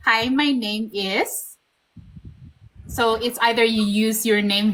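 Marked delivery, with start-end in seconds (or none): 0.1-1.6 slow demo intro. Shown as a demonstration. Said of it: "Paano ulit?".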